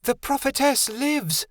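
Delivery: high, slow proclamation of triumph; ringing triumphant cry; triumphant exclaim. A narrator's reading. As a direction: announce it like a victory. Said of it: "Vixen exclaimed in triumph".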